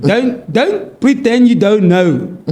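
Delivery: put-on South African Boer accent, drawn-out ending. Challenging someone who feigns ignorance, Boer accent. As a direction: play a Boer South African, stretching the words. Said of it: "Boer accent".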